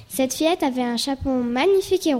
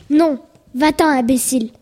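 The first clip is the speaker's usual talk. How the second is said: ton méchant; 7 dB louder than usual. Acted. Cendrillon rabroue la fillette.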